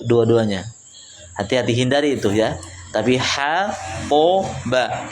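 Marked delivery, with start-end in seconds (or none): 3.2-5.1 HA light, PO dark and thick, BA light; thin, thick, thin. Shown as a demonstration. Teacher breaking the word down, thin-thick-thin HA, PO, BA. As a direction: separate HA, PO, BA by weight. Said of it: "tipis, tebal, tipis".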